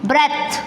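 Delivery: ब्रेथ with a short e and th ending; ब्रेथ छोटे ए और थ के साथ; model word. Shown as a demonstration. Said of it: "इसमें थ आता है".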